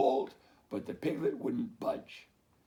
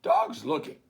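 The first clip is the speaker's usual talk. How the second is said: duck voice; 3 semitones higher, 8 dB louder than usual. Acted.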